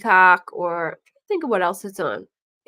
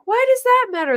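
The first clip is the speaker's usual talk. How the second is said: mock confused; 5 dB louder, faster than usual. Voicing confused girlfriend.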